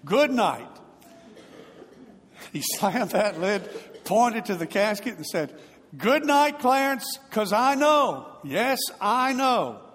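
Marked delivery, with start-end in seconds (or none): 0.1-0.8 louder, higher farewell shout; yelled good night. Retold or imitated. Preacher shouting farewell over the shut casket, loud. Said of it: "he yelled". 6.0-9.8 much higher and louder, slowing on yes I know; preacher's shout. Retold or imitated. Preacher pointing at the casket, shouting joyful certainty.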